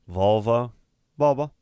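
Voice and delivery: first Volvo with v, second Volvo as Bobo; V swapped to B. Retold or imitated.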